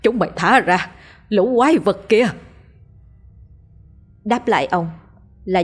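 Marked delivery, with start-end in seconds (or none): 0.0-2.3 shouting. A narrator's reading. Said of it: "ông hét lên".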